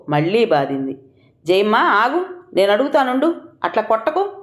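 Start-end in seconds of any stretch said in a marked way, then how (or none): 1.5-4.3 restraining. A narrator's reading. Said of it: "doctor వారించింది".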